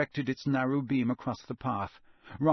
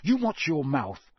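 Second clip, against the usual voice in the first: shouted; 3 semitones higher, 3 dB louder than usual. Acted. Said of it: "shouted Ron".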